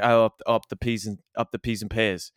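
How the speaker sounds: attempted East London Cockney rhyming slang; East London accent. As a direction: answer like an East London local. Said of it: "East London thing in my head now".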